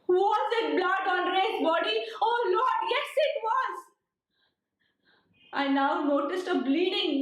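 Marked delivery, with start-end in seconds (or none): 0.1-3.9 dawning horror, voice lifting higher; horrified realization. Acted. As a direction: pitch climbing in rising alarm. Narrator discovers blood on Ray's body.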